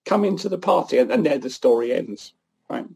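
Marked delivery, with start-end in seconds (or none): 0.1-1.0 a high, gentle plea to come inside; pleading father. Acted. Father begging his resentful older son to come in, pleading. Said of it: "the father pleads with the older son".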